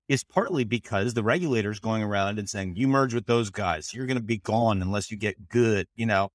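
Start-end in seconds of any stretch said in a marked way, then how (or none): 2.8-5.9 bad Australian accent. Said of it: "that's a bad Australian accent".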